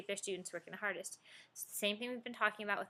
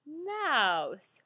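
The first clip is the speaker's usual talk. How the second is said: loud, booming robot voice; 8 dB louder than usual. Retold or imitated. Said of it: "one teacher did it in a robot voice".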